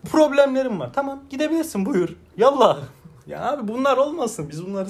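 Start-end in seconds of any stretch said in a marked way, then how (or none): 0.1-2.8 high, laughing shoo-away; mock brush-off. Mimicking a partner's excuse and shooing them off, laughing. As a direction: wave them off, half laughing.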